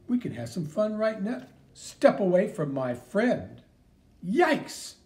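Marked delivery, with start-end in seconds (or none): 1.7-3.6 slow, louder, firm command; stern warning. Acted. Hero ordering the bullies off Joey, stern. 4.2-5.0 high, loud frightened yelp; startled yelp. Acted. Bully seeing the mouse, startled yelp.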